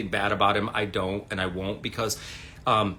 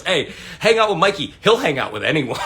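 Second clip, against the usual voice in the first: teasing quote; 6 semitones higher, 7 dB louder than usual. Retold or imitated. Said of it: "Joe Trollman looks at me and he goes".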